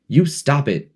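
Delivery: high, sharp protest; shrill. A narrator's reading. Piggy telling Ralph to stop, shrill and high. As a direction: snap it out high and thin. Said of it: "said Piggy shrilly".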